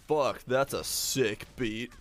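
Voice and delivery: slow, deadpan "Fuck, that's a sick beat."; mock impressed listener. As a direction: drag "sick beat" out like an airhead fan. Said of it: "hears their smoke detector and goes".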